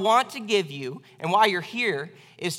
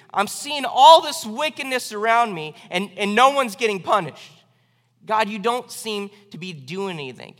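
voicing Habakkuk's raised complaint to God; prophet's loud complaint; 5 dB louder than usual. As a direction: cry out against the injustice.

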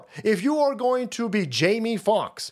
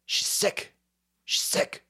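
mock whisper; 5 dB quieter, slower than usual. Mock gossip exchange.

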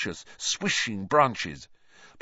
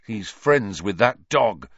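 grim; 5 dB louder than usual. Acted. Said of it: "said Harry grimly".

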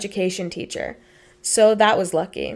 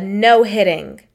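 retold loud no; 6 dB louder, slower than usual. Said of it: "very loudly ... said".

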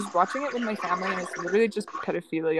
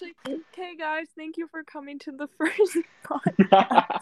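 mock podcast host; 7 semitones higher than usual. Mock sign-off.

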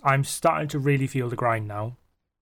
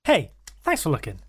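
Paul Rudd impression. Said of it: "Like Paul Rudd".

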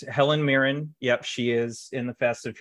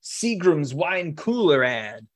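mock egomaniac; 2 semitones higher, 4 dB louder than usual. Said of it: "he was an egomaniac who was just like".

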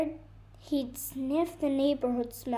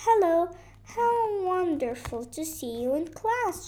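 higher, louder greeting as the bird; chirping bird; 5 semitones higher, 3 dB louder than usual. Acted. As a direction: chirp a happy hello as the bird. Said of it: "she chirped".

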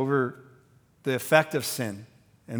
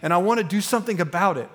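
righteous anger; 4 semitones higher than usual. Retold or imitated. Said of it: "It's a righteous anger".

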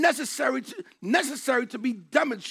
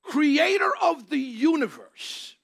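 voice of God; 3 semitones higher than usual. Acted. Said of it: "It is".

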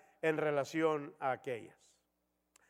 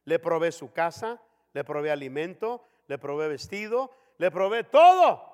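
exasperated father; 2 semitones higher, 8 dB louder than usual. Retold or imitated. Father lists what he gives.

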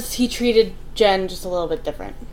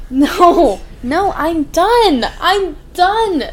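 loud, higher, laughing "I'm done"; exasperated outburst; 7 semitones higher, 10 dB louder, much slower than usual. Real, not acted. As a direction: throw up your hands, loud and laughing. Outraged at friend's band opinion.

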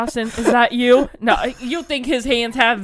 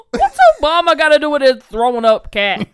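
laughing disbelief; 2 semitones higher, 6 dB louder, faster than usual. Real, not acted. Laughing at comment.

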